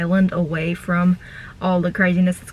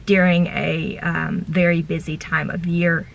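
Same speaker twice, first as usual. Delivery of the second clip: chewing gum. Real, not acted. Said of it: "Sorry, I have gum in my mouth".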